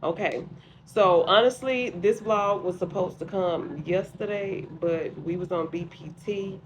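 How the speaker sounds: muffled behind a face mask; through a face mask. Real, not acted. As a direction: talk through a sheet mask. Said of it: "Don't mind the mask".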